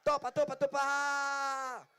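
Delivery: imitando a los chicos que gritan su nombre; grito de fan imitado. Retold or imitated. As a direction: grita Topa como un nene entusiasmado. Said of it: "Me grita mucho Topa". (grito imitado de los fans llamando a Topa)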